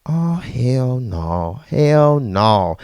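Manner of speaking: slow, low "hell no" drawn out; understated mock horror; slow disbelief. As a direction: refuse flatly under your breath. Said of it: "I'm like".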